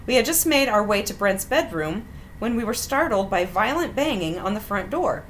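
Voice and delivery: measured, wry read-aloud of a personal story; story narration. A narrator's reading. Host reading out an embarrassing dating story, measured narration. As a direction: read it out neatly like a written memoir.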